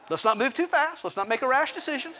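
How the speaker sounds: lightly high-pitched, hedging; mock-prudent, voice lifted; cautious husband. Husband stalling his wife on a decision, cautious.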